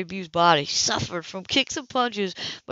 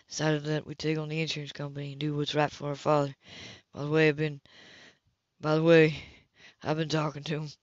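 quiet earnest man; 4 semitones lower, 6 dB quieter than usual. Acted. Man character, low.

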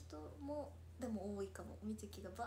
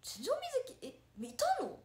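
high, loud astonished question; startled, raised-voice surprise; real surprise; 13 semitones higher, 8 dB louder than usual. Real, not acted. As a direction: react in disbelief, pitch leaping up. Surprised fan was there today.

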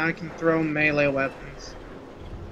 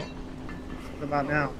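crackling static voice; slow glitching robot voice; 6 dB quieter, slower than usual. Real, not acted. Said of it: "I don't know if that's coming from me or you".

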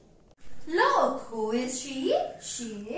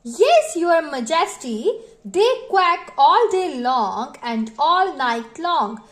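Papa Duck answering; 6 dB louder than usual. Acted. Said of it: "said Papa Duck".

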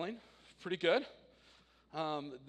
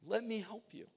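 frustrated dad; 9 semitones higher, 5 dB louder than usual. Retold or imitated. Dad pleading to help daughter.

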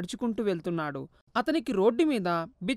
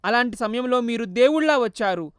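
tearful plea; 3 semitones higher, 6 dB louder than usual. Acted. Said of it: "కన్నీరు కార్చింది".

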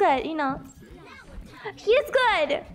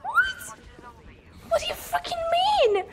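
shrill mock disbelief, much higher; imitating Sophie's outrage; 9 semitones higher than usual. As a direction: squeal it like an offended girlfriend. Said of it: "She was like".

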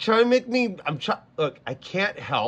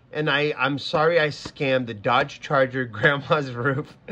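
laughing; 3 semitones lower than usual. Real, not acted. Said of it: "You're making me laugh".

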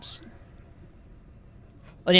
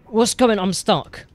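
a higher, louder flustered cry at being stuck; panicked; 7 semitones higher, 6 dB louder than usual. Real, not acted. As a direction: sound trapped and rattled. Stuck while fleeing.

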